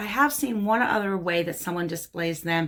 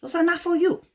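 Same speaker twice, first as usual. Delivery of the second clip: mock firm refusal; 9 semitones higher than usual. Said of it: "'Cause the answer's gonna be".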